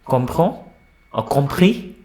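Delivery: COMPREND and COMPRIS each lifted at the end; question intonation. Shown as a demonstration. Teacher giving one-word questions, questioning rise on compris. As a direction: ask with a rising Comprend, then a rising compris. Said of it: "A question".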